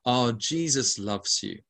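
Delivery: a hint of a gushing charismatic preacher; best charismatic voice. Shown as a demonstration. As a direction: lay on the charismatic warmth, lightly. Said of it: "in my best charismatic voice".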